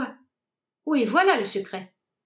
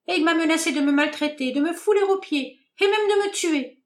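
faster, climbing into alarm; building to high panic; 4 semitones higher than usual. Acted. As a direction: let fear push the voice up. Hélène affolée raconte. (panique croissante)

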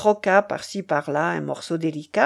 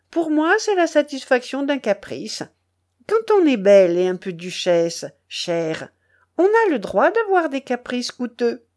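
lightly voiced haughty duchess, airy and self-satisfied; a hint of grand-lady disdain; imperious duchess, capricious; 3 semitones higher than usual. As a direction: justify a whim like spoiled nobility.

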